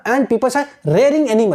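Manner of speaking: slow, deliberate recall of keywords. Shown as a demonstration. Teacher showing students how to recall keywords slowly. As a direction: say each keyword slowly as if remembering. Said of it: "जब keywords को आप लेके आओगे ना".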